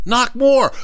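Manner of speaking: high, urgent order; imitated impatient schoolgirl; bossy girl. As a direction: urge him on in a high voice. Bossy girl demands harder knocking.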